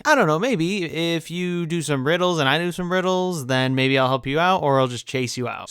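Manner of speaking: put-on creature voice, starting high; Gollum. Creature offering Bilbo a riddle deal, odd put-on voice. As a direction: begin high and sink as you bargain. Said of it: "Gollum's like".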